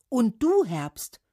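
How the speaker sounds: high, loud challenge, dropping on the name; calling out. A narrator's reading. Trees confronting Autumn, calling out. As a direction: challenge loudly, then drop. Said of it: "riefen sie da".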